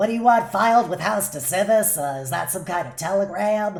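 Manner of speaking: scratchy, raspy put-on gnome voice. Showing another person the voices used for game creatures: scratchier gnome voice. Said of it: "but a little scratchier".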